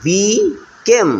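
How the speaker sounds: বিকেম drawn out very slowly, each syllable long; slow, stretched out. Shown as a demonstration. Teacher slowly stretching বিকেম for pupils. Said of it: "ভেঙে ভেঙে আমরা উচ্চারণ করবো".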